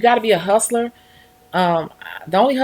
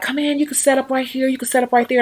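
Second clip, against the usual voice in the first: breezy host; 6 semitones higher than usual. Retold or imitated. Dog owner inviting her in.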